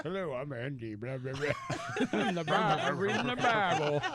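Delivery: lightly voiced preacher; mock pastor. Host teasing colleague in his pastor tie, mock pastor voice. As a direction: imitate a pastor, loosely and jokingly. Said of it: "And then he puts his pastor tie on".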